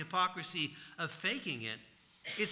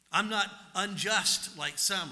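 smug Pharisee; 3 semitones higher, 5 dB louder, slower than usual. Retold or imitated. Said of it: "he thanks God that he's not like other men".

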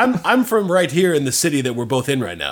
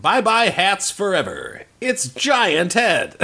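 commercial voice; slower than usual. Pretend. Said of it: "I thought that commercial was over".

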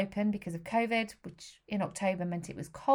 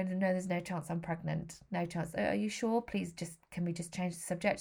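mild tearful plea; 5 dB quieter than usual. Retold or imitated. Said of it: "dissolved into this kind of sobbing".

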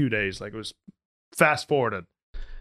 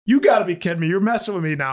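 mock incredulous; 4 semitones higher, 4 dB louder, much faster than usual. Retold owner balks at more cleaning.

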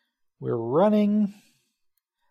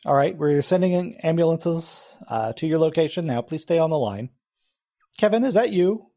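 911 operator; 4 semitones higher than usual. Acted. GM plays 911 dispatcher.

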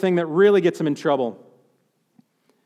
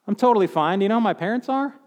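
smug self-assurance; faster than usual. Retold or imitated. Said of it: "tempting religious trapping here".

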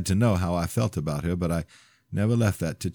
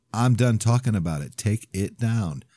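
firm ultimatum; 5 semitones higher, 3 dB louder than usual. Acted. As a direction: lay down the law. Ending the argument.

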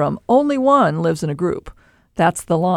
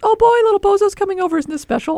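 very high, quick mock gushing; gushing dog owner; faster than usual. Owner fussing as little bozo comes over, mock gushing. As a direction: make a put-on squeaky fuss over the puppy.

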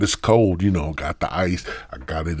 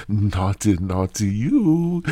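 mock scolding; 4 semitones higher, 6 dB louder, slower than usual. Scolding listeners playfully.

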